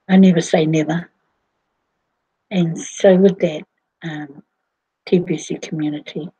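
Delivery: hoarse, husky speaking voice. Real, not acted. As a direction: talk through a husky throat. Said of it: "my husky voice".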